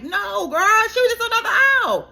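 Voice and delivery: fast, high, laughing shout; laughing disbelief. Real, not acted. Telling viewers how close Meredith sat, shouting through a laugh.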